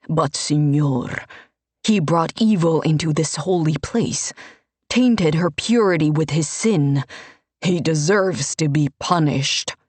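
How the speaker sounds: a pious man playing to the crowd, lightly voiced; Ivini the priest. Ivini protests to Tomo.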